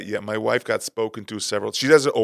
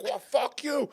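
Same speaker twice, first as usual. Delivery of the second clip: mock Italian defiance; 13 semitones higher, 4 dB quieter, slower than usual. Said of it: "so it's like Italian versus Jamaican".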